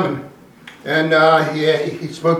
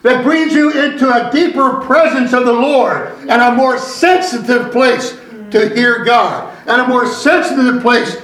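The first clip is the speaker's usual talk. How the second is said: slow, deliberate pulpit delivery; measured preacher cadence with weighty stresses; emphatic preaching; 5 semitones higher, slower than usual. Real, not acted. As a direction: drive each phrase home to the congregation. Preaches to the congregation.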